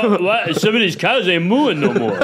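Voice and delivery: mock Rocky Balboa growl, laughing; a hammed-up Italian Stallion. Comedian mocking Rocky about cows, laughing Rocky voice.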